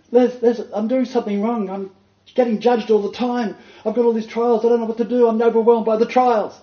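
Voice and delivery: high, loud distressed plea; tearful woman. Retold or imitated. Lady in tears complaining to her pastor, high and loud. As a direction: play her overwhelmed and pleading. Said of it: "She went".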